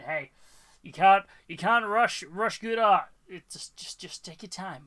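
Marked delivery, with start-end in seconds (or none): 3.3-4.8 breathy whispered reassurance; hushed calming whisper; soft whisper. Real, not acted. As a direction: whisper it gently so she relaxes. Soothing a stressed viewer.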